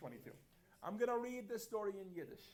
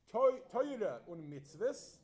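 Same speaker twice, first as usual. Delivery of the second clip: Yiddish-accented "Teure" for Torah, slow; 3 semitones higher, slower than usual. Shown as a demonstration. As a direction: say "Teure und Mitzvahs" the Yiddish way, drawn out. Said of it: "that's how you would say it with a Yiddish accent".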